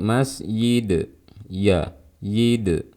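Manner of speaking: "masjid" as mas-yid, then "yid" alone; jim turned to ya. Shown as a demonstration. Teacher breaking down the mistake, y-sound in "masjid, yid". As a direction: let y replace j in "masjid". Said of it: "terdengar ada suara ya".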